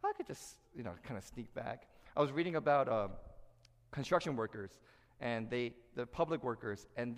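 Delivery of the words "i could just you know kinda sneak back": sly slacker whisper. Retold or imitated. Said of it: "you're like".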